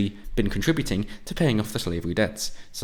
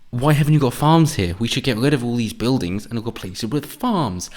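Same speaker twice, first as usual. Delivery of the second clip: raised, louder mocking whine; mock indignant demand; 3 semitones higher, 4 dB louder than usual. Mocking city newcomers demanding farms, louder mock whine. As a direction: parody of a newcomer's complaint.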